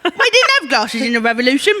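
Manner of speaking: slow, laughing cockney urchin; old London cockney. Retold or imitated. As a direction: drag it out like a Victorian urchin. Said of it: "He lives in me".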